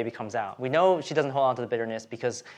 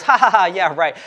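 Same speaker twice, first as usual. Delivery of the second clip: loud, higher-pitched put-on "ha ha ha"; scoffing mock laugh; 5 semitones higher, 8 dB louder than usual. Abraham laughing at God's promise of a son, scoffing. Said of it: "Abram laughs, he goes".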